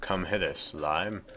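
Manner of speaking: put-on old-fashioned hero voice, half-joking; a hammed-up holy warrior daring a slime; mock biblical prophet. Archaic words to a game enemy.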